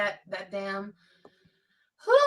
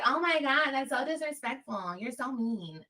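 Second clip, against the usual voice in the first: higher, exaggerated offended whine; mock outrage; 6 semitones higher than usual. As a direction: imitate scandalised critics, hammed up. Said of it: "But people are like".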